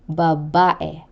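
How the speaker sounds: babae with stress on the middle -ba-; penultimate stress. Shown as a demonstration. Teacher repeating a penultimate example, middle syllable stressed in babae. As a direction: lean on the second syllable of babae. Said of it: "given to the syllable before the last".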